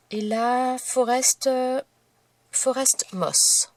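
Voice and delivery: "Forest Moss" said slowly with French sounds; English paint name in French accent. Real, not acted. Crafter listing her inks, slowly saying "Forest Moss" with a French accent. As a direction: take your time over "Forest Moss" with a French accent. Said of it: "je suis désolée pour mon accent".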